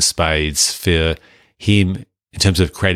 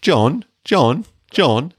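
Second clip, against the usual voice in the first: Aussie actor quote; 6 semitones higher, much slower than usual. Retold or imitated. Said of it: "where he goes".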